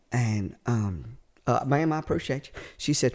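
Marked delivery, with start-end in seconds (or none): 1.7-2.6 put-on Southern accent. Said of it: "Southern accent".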